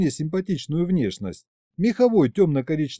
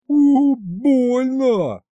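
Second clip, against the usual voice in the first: pained yell; 10 semitones higher, 6 dB louder, much slower than usual. A narrator's reading. Reflex pain after blow.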